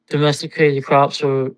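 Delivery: drowsy, half-asleep voice; sleepy, fading speech; nodding off. Real, not acted. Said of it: "I'm falling asleep here".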